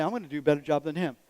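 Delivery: low, quick retold boast; understated boast. Retelling his own earlier boast.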